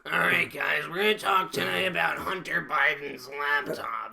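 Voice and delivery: put-on teacher opening class; mock a droning teacher addressing students; Tom. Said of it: "Tom would start off class".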